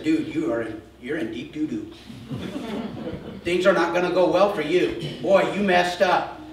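laughing at his bad luck; mocking laughter. Haman's family teasing him about his disgrace, laughing.

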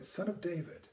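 soft, hushed repetition of a prayer; softly repeating a short prayer; gentle prayer. Shown as a demonstration. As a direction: murmur it gently, like a feather landing. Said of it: "I just gently say the words".

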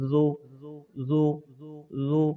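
জু with a soft, gentle z; জু said softly, not hard; soft zal. Shown as a demonstration. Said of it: "এই জালটাকে আমরা শক্ত করব না, নরম করব".

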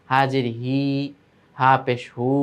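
হি and হু stretched at the end; drawn-out vowels. Shown as a demonstration. Teacher showing pupils the stretch to avoid, drawn-out vowels. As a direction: linger too long on হি and হু. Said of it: "টান চলে না আসে".

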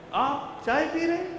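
Aap chai pee rahe slow and high, leaning on rahe; slow, rising, stress on rahe; drawn-out question. Shown as a demonstration. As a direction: stretch it out, surprised, rahe held long. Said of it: "I said it three different ways".

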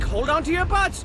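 bold command. Acted. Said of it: "Hattie was all like".

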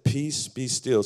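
hushed, slow restatement; calm slow repeat. Acted. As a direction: settle the storm gently. Quieter repeat after loud proclamation.

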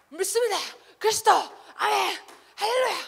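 high, loud shouted amens; mock fervent worship. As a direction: ham up an ecstatic church cry. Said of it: "순복음 교회 가면". (높고 크게 외치는 열광적인 예배 흉내)

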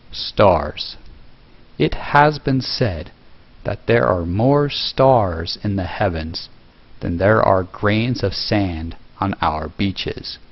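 slow, clearly articulated documentary narration. Shown as a demonstration. Creator demonstrating narration for a tutorial video, documentary voice. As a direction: narrate slowly, accentuating the words. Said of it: "when you're doing a documentary voice, ... speak slowly and clearly and accentuate".

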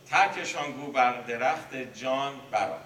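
آرام و آهنگین، مثل خواندن شعر مثنوی; بیت را با طمأنینه بخوان; شعرخوانی. Acted. Reciting a Masnavi verse. (خواندن آهنگین بیت مثنوی)

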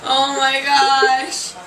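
slow, loopy laugh through words; giggly and dazed after surgery; drugged giggle. Real, not acted. Giddy patient after anesthesia.

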